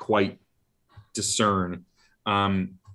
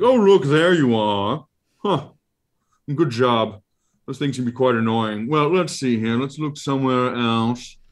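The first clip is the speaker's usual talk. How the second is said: higher, fussy monster voice musing aloud; Ralakor creature voice; 4 semitones higher, 4 dB louder than usual. Acted. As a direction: muse like a pompous eye creature.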